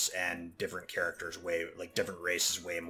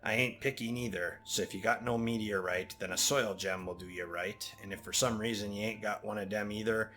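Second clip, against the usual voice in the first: put-on Jamaican accent. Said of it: "slipping into, like, Jamaican".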